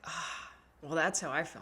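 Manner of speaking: soft breathy reply; whisper. Retold or imitated. Whispered response to a song, soft. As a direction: whisper it to yourself. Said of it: "you're like".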